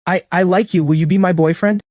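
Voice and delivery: balbettio nervoso, voce più alta; nervous stammer. Acted. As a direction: dichiararsi tremando di coraggio. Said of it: "stammering, visibly nervous".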